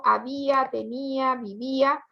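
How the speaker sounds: "había, tenía, vivía" each leaning on the í before the a; stress on the í. Shown as a demonstration. Teacher listing hiatus examples, "había, tenía, vivía" with weight on each í. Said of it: "se carga la voz en i".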